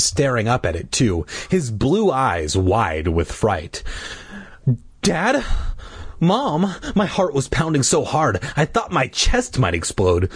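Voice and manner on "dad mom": higher, questioning call; anxious calling. A narrator's reading. Frightened child calling parents, anxious. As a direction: call out for your parents, mildly afraid.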